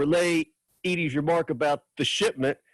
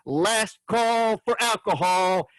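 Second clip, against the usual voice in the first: mild narrated yell; 6 semitones higher, slower than usual. A narrator's reading. Waitress to the diner crowd at closing, calling out. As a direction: call it out slow and high, without full volume. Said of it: "above her head and yelling".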